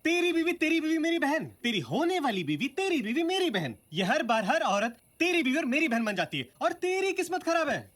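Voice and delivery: indignant retort. Acted. Friend's indignant sarcastic retort.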